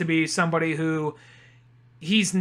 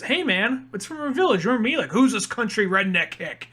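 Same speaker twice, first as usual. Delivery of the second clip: higher-pitched eager hail; mock an eager cousin saying hello; retold friendly greeting; 3 semitones higher than usual.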